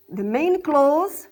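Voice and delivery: "the main clause" repeated slowly, leaning on "main"; slow stress on main clause. Shown as a demonstration. Teacher repeating "main" slowly for students. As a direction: drag out "main" so it sinks in. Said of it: "We have the main clause".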